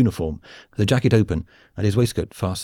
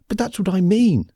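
higher, louder exclamation; cried out; 11 semitones higher, 3 dB louder than usual. A narrator's reading. Smith crying out to Khan in protest. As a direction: burst out in protest. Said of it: "Smith cried".

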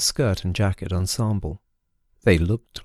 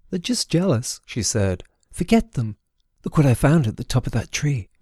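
put-on dismissive girl; 4 semitones higher than usual. Sewell dismisses fleeing crowd.

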